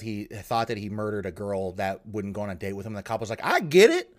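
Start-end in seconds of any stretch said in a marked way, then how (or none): 3.4-4.1 higher, louder, slow mocking cop imitation. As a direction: ham up the clueless cop, dragging it out. Cop mocked in retold confession.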